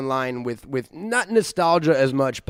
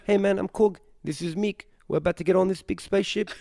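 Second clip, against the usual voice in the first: put-on higher-pitched New Zealand accent; Korg; 3 semitones higher than usual. Co-host doing his film impression for his friend, New Zealand accent. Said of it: "My Korg impression".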